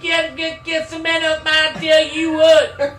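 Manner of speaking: put-on high, ranting old grandpa; hammed-up, high-pitched grandpa grumbling; crazy grandpa. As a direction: rant like a crazy country grandpa. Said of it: "You're like Grandpa".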